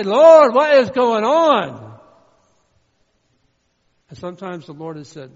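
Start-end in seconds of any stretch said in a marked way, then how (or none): 0.0-2.0 huge, high, drawn-out shout; full-force exasperated wail; crying out to God. Acted. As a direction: bellow it slowly to heaven. Acted cry to God.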